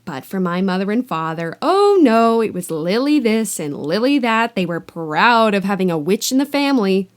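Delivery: loud, bitter ranting aunt. Acted. Aunt ranting to Harry about her witch sister, loud. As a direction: rant like years of resentment bursting out. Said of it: "went ranting on".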